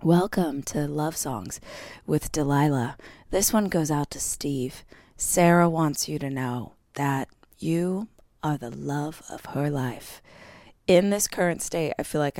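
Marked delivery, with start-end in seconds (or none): 0.0-10.2 lightly voiced love-songs DJ; late-night radio host. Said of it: "Remember, she'd be like".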